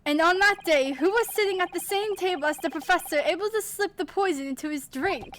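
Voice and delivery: loud, slowing to accuse; dramatic accusation. Acted. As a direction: build to the final point.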